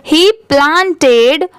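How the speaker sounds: very slow, word by word, with pauses; careful model reading. Shown as a demonstration. Teacher reads the paragraph for learners to listen closely, slow and careful. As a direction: read aloud slowly, stretching each syllable for learners. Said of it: "comma आया तो वहाँ पर भी थोड़ा रुकना चाहिए".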